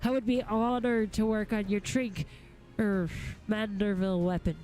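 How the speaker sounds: lightly voiced smith hastily placating his client; backpedalling cranky smith. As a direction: backpedal with rough-spoken deference. Reads a grumpy smith's dialogue.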